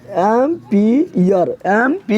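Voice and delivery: drawn out, syllable by syllable; word broken into slow, separate pieces; slow dictation. Shown as a demonstration. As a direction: spell it out slowly for the class. Dictating the term in parts.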